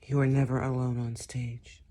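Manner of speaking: soft unvoiced whisper. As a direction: hush it like a secret. Whispered take of the line.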